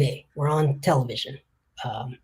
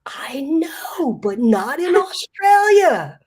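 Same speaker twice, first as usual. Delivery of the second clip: laughing; 11 semitones higher, 8 dB louder, much slower than usual. Retold or imitated. Punchline to reporter, laughing.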